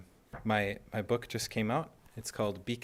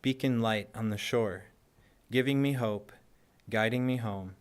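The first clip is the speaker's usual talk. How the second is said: measured poem reading, each short line set apart by a pause; poetry recitation; 4 dB louder than usual. Acted. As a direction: recite it line by line, lifting the openings and letting the ends fall.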